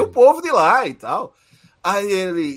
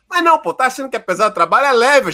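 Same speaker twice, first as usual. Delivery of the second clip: raised-pitch, pushy persuading; retold insistence; 4 semitones higher than usual. Vendor pressing a job on him, retold in a higher, insistent voice. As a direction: imitate someone who keeps insisting, higher voice. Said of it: "E o cara insistindo".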